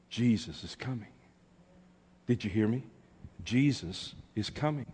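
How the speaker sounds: soft, measured refrain; solemn, held-back urging; hushed proclamation. Real, not acted. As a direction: repeat it quietly, leaving space around it. Quiet repeats before the build.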